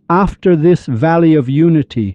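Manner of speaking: slightly lifted, measured reciting voice; verse recitation. Acted. Teacher reciting couplets on unity to listeners, verse recitation.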